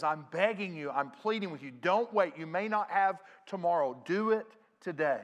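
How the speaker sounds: preacher voicing an emphatic appeal; urgent pleading. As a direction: press the plea home, phrase by phrase. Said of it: "you're begging and you're pleading".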